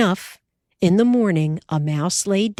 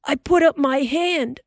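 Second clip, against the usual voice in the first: Pa's voice; 8 semitones higher than usual. A narrator's reading. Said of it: "Ma interrupted".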